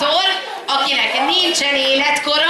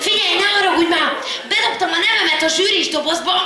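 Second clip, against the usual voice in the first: higher-pitched imitation of an apologetic entrant; imitated contestant's request; 6 semitones higher than usual. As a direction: ask pleadingly, voice lifted, as a retold quote. Imitates late entrant's timid request.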